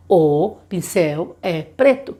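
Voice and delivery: put-on as the child would say it; child voiced slowly. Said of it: "ele consegue saber que". (voz de criança, devagar)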